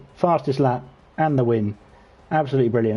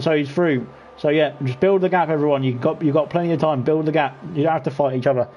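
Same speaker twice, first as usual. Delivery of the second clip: lively play-by-play, pitched up as the race starts; live race commentary; 3 semitones higher than usual. Acted. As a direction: call the race like a sim racing caster.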